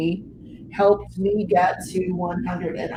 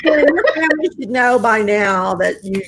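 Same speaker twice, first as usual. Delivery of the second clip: louder, words breaking through laughter; laughing; 5 dB louder than usual. Real, not acted. Host teasing a viewer about her family, laughing. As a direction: start the reply while still cracking up. Answers comment while cracking up.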